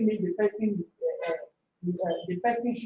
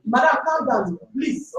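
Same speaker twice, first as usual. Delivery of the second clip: firm plea; 3 semitones higher, 5 dB louder, slower than usual. Real, not acted. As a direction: cut in loudly to calm them. Interrupts a heated quarrel to calm her.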